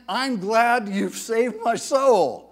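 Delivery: slow, earnest thanks; grateful prayer. Retold or imitated. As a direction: thank the Lord sincerely. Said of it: "he knew I meant".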